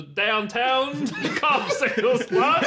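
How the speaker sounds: slow stumbling end, laughing. Acted. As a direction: drag it out, breaking into laughs. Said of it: "had a stroke at the end of it".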